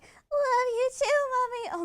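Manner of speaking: high, slow, cracking squeal. Retold or imitated. Kid voice actor crying out to mommy, voice cracking high. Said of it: "my voice cracked a lot".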